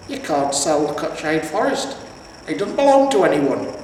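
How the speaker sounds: put-on outraged old warrior; hammed-up indignation; indignant old hero. Cohen indignant.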